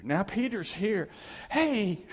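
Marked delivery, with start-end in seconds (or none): 1.5-2.0 loud, high "hey" to get attention; playful raised-voice call; acted calling out. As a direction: hail someone, voice jumping up. Jesus calls out to Peter.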